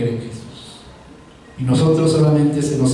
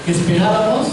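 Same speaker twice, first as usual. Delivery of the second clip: imitated taunt, pitched up; mocking soldiers; 4 semitones higher than usual. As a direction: challenge him like a jeering soldier, without shouting. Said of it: "varios de los soldados burlándose". (burla imitada de soldados, en tono más agudo)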